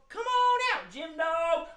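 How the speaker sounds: very high sing-song echo of a call; high-pitched calling. Pretend. Echoing for the children summoning the dog, high calling. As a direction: call out in a little high head voice.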